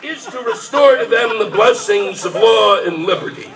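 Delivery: mock royal address, read grandly; formal speech reading. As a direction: declaim it like a king before Parliament. Reading King George III speech aloud.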